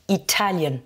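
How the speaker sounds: Italian with TA punched; stress on second syllable. Shown as a demonstration. Teacher modelling the nationality, stress on TA in Italian. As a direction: lean on the TA in Italian. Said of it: "deuxième syllabe".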